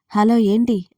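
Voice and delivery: sharp, annoyed hello; angry. Acted. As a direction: snap back, irritated. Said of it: "అని అడిగాను కోపంగా". (కోపంగా)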